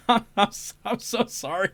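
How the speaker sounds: high, helpless laughter through the apology; laughing apology. Real, not acted. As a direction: apologize while cracking up. Cracking up while apologizing.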